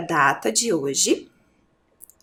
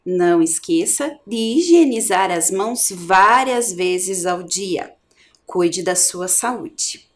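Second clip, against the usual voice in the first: caring reminder; slower than usual. Real, not acted. Teacher's caring health reminder.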